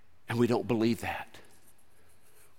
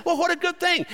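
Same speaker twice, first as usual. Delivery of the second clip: high, bright villager exclaim; excited villagers; 4 dB louder, faster than usual. Acted. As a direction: cheer it like a villager.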